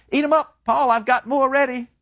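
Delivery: high, fluttery mother voice, pitch climbing on "Paul?"; a mother fretting over her soldier son; doting mother. Acted. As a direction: play the worried, fussing mother. Mother pressing food on son.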